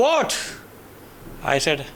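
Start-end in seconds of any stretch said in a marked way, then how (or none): 0.1-0.4 high, loud surprised what; shocked by his answer. Retold or imitated.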